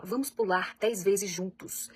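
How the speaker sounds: slow and inviting, no pressure; inviting suggestion. Retold or imitated. Parent calming an agitated child, slow and inviting. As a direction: draw the child into moving together. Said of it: "você fala".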